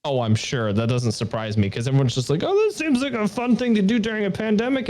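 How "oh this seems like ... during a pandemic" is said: high, silly naive voice; mocking airhead voice. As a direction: mimic a clueless newbie. Mocking everyone's naive thought.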